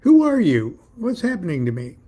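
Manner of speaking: high, loud alarmed question, easing off; startled, distorted inner voice; crackling inner voice. A narrator's reading. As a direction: demand it as if over a CB radio. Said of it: "My own inner voice crackled distortedly".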